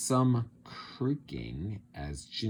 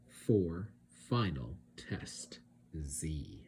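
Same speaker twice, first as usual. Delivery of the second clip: hushed unvoiced whisper; 5 semitones lower, 5 dB quieter, slower than usual. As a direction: breathe it like a secret. Monsters' secret whisper.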